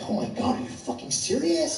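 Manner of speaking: mock white lady. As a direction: play the shocked white lady. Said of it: "like, white ladies".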